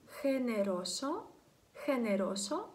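"хенеросо" begun with a kh sound; kh pronunciation. Shown as a demonstration. Teacher giving an example word, initial kh sound. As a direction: model "хенеросо" with kh, never a hard g. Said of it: "це буде читатися як «хе»".

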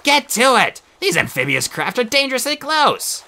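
loud, high urgent command; urgent order. A narrator's reading. Lazuli hurries the brothers as boats approach, loud and urgent. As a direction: drive them to move now.

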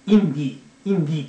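インディー read as "in-dee" from the letter names; literal letter reading. Shown as a demonstration. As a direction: say インディー with E as a plain "i". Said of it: "そのまま言うと".

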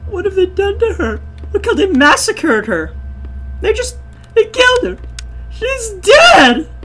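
high, hushed hammed-up lament; mock grief. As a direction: mourn her in melodramatic disbelief. Mock mourning of game bird.

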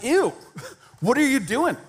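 high, mock-disgusted recoil; hammed-up grossed-out pullback; mock horror at someone unclean; disgusted Jesus. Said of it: "Jesus is like".

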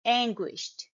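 "anguished" pronounced ANG-gwisht; final t sound. Shown as a demonstration. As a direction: end "anguished" with an unvoiced t. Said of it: "The ending sound will be t".

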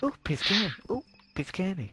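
high, playful put-on voice; high silly voice. Repeated candy-spotting catchphrase voice.

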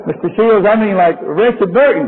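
imitating a Southern man explaining his name; light Southern accent imitation. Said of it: "the accent".

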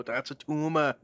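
Schwarzenegger impression. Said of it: "do his best Arnold Schwarzenegger impression".

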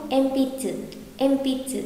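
"enpitsu" said as "empits", pi linked to a light tsu; linked sounds. Shown as a demonstration. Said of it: "pi với chư nối âm một chút". (đọc "enpitsu" thành "empitsu", nối âm)

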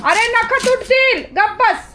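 high, sharp telling-off; scolding the dog. Real, not acted. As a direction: stop the dog before it breaks its nails. (कुत्र्याला उंच आवाजात रागावणे)

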